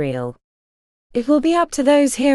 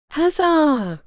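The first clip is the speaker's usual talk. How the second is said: high, bright cheer with glass raised; excited cheer; 7 semitones higher than usual. A narrator's reading. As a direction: cheer it higher, holding the glass up. Ares repeats the cheer.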